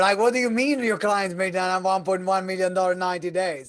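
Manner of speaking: keen, high, loud curiosity; eager prospect. Acted. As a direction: play the hooked prospect begging for details. Host acts an intrigued prospect.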